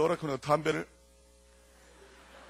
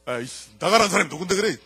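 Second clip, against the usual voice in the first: retorting; 4 semitones higher, 8 dB louder than usual. Retold or imitated. Couple quarrel retold.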